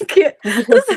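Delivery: real laugh at her past self. Real, not acted. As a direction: laugh through the word. Laughs at her own reaction.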